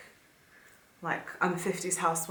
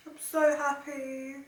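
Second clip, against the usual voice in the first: higher, slow "I'm so happy" with "so" lifted high; overjoyed, "so" pitched way up; happy squeal; 9 semitones higher, slower than usual. Real, not acted. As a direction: let the joy spill up into a squeak.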